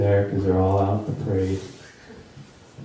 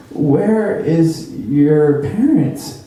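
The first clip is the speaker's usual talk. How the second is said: concerned stranger; 6 semitones higher, 5 dB louder, much slower than usual. Retold or imitated. Stranger finds lost child.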